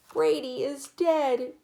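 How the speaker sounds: high, loud, slow wail. A narrator's reading. Little boy mourning his toy, high wail. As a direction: wail it like a distraught small child. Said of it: "Dylan wailed".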